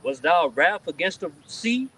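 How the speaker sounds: slow, forceful verse reading; scripture reading. Real, not acted. Reading Habakkuk to the group, emphatic scripture reading. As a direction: proclaim each question deliberately.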